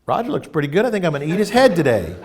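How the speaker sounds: a hungry bug eyeing his friend, half laughing; hungry insect voice. Pretend. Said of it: "Imagine if, you know, we were insects".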